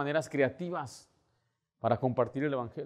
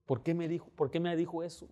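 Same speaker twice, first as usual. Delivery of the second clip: mild mock crying; 3 semitones higher, 5 dB quieter than usual. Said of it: "Estaba llorando".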